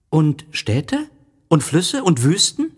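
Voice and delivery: put-on high, admiring child voice; a boy marvelling at a planet; little prince. A narrator's reading. Little prince admires the planet and asks about oceans.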